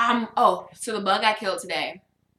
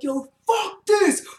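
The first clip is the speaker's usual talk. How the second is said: high, loud mock rant; retold mad outburst; 11 semitones higher, 4 dB louder, slower than usual. Storyteller mad at a bug before work, exaggerated anger. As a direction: wail it in comic outrage. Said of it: "crying or I'm mad".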